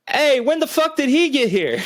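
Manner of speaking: high startled yell of a roommate; surprised friend. Retold or imitated. Roommate finding a guest asleep, startled yell. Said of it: "I heard him go".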